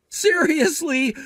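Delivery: very high, drawn-out disbelief; incredulous. Acted. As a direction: balk at an absurd demand. Hears he was asked to pay.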